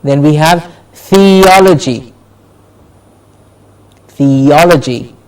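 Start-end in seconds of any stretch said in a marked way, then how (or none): 0.9-2.1 "theology" as thee-OL-uh-jee; stress before -logy. Shown as a demonstration. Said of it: "the syllable before logy is stressed". 4.1-5.2 "theology" as thee-OL-uh-jee; stress before -logy. Shown as a demonstration. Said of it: "the syllable before logy is stressed".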